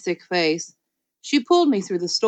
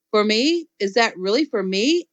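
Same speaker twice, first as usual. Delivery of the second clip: squealing. Acted. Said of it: "I said, very squealing".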